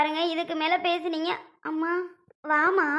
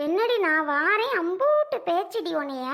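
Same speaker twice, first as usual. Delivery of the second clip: angry confrontation; 3 semitones higher, 3 dB louder than usual. Acted. Mother confronts mother-in-law.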